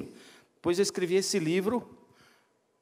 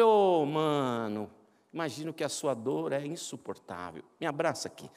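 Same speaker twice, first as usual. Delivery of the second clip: gentle comfort. Retold or imitated. Pastor comforts crying man.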